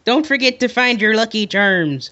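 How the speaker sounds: hammed-up attempt at Irish; badly faked Irish lilt; Irish accent. Shown as a demonstration. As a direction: do a cereal-advert Irish accent. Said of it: "I want you to do an Irish accent".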